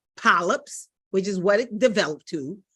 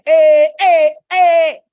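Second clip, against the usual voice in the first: loud, high cheering hey; shouted hey hey hey; loud hype call; 6 semitones higher, 12 dB louder, slower than usual. Real, not acted. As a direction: pump the crowd up. Hyping up the audience.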